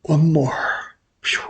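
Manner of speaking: breathy hushed whisper. Real, not acted. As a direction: whisper it to yourself, hoping. Hoping for another win.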